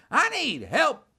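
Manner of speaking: high, mocking echo of a plea; parroted high wail; mimicking a yell. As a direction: mimic someone's cry for help. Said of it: "he starts mimicking me".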